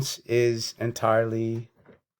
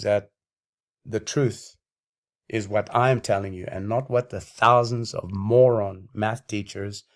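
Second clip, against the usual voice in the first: winded, ranting on; running out of air mid-rant; out of breath. Real, not acted. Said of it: "I'm totally out of breath".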